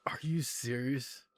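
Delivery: hushed, slow whisper; whispered disbelief. Real, not acted. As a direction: whisper it in shock. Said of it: "reacting in disbelief".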